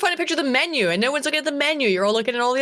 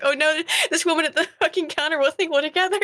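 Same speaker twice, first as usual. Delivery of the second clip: higher-pitched dread, undercut by laughter; laughing mock worry; 4 semitones higher than usual. Retelling the fear at the chippy counter, laughing. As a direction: voice the worry while giggling.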